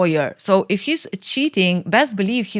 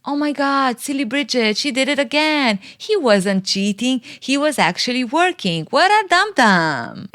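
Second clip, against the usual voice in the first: higher, sing-song teasing voice; mocking friends; 5 semitones higher than usual. Mark's lawyer friends laughing at silly Bridget, high sing-song mock. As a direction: tease her like a smug lawyer friend.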